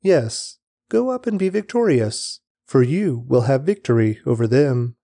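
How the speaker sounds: mock agreement, the voice swooping up on go up; a fake yes, dripping with irony; sarcastic. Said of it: "replied sarcastically".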